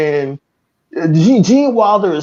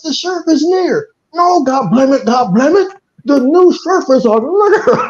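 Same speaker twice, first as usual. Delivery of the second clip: put-on higher, agitated old-timer; excited townsfolk; 5 semitones higher than usual. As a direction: blurt it out all worked up. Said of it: "He says".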